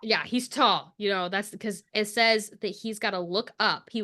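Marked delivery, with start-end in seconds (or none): 0.0-0.9 hushed, dreamy whisper; whispered agreement. Real, not acted. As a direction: whisper back in conspiratorial agreement. Echoing friend's awed whisper.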